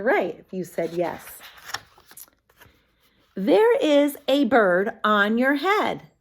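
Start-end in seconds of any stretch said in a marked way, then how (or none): 3.3-6.1 Piggy voice. Acted. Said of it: "Piggy reading aloud".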